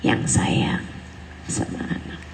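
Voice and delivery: soft, breathy repeat of the point; whispered repeat. Acted. Preacher repeats the point in a whisper. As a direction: let the words drop to a whisper. Repeating the key phrase softly.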